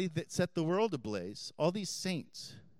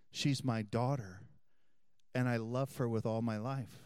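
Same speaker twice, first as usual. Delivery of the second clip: tender reassurance; 4 semitones lower than usual. Retold or imitated. Priest tenderly reassuring distressed woman.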